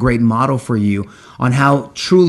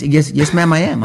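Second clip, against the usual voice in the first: higher, firm and proud; emphatic; 5 semitones higher than usual. Shown as a demonstration. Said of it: "It doesn't make any sense".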